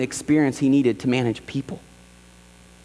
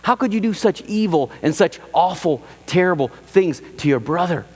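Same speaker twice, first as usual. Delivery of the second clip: mock outrage; 5 semitones higher than usual. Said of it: "a lot of us are going".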